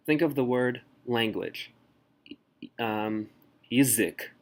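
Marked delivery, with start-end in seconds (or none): 3.7-4.3 язык starting with a short yi, stress on the end; reduced first vowel. Shown as a demonstration. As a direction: say "язык" as yi-ZYK. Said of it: "pronounced more like y".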